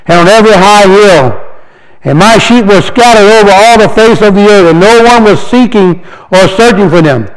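slow, solemn reading of scripture. Acted. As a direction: read the verse like a proclamation. Reads scripture aloud.

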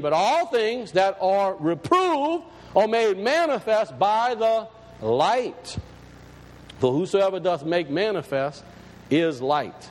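slow, measured reading of the verse; scripture reading. Acted. Preacher reading the verse to his congregation, slow and measured. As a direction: lay each word out like holy writ.

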